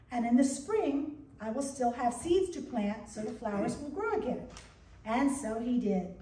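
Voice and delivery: gentle storyteller reading to a congregation; story reading. Acted. Pastor reads a short tale to the congregation, storytelling. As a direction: read it like a children's tale.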